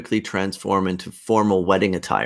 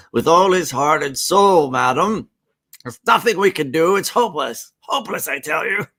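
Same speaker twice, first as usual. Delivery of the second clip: mock doctor; 4 semitones higher, 4 dB louder than usual. Husband plays mock doctor.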